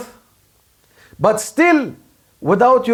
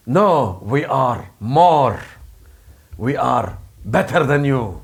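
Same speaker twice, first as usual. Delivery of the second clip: Russian; 7 semitones lower than usual. Acted. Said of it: "And the Russians say".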